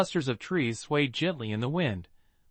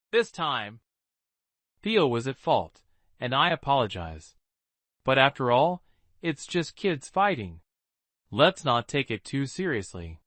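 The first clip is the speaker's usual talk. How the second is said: calm. Acted. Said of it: "she calmly spoke".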